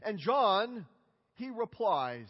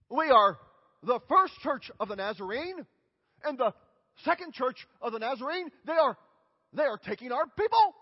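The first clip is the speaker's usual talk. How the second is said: mock-indignant complaint, louder on key phrases; mock indignation; 6 dB louder than usual. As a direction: protest like an aggrieved congregation. Mock complaint from rival churches.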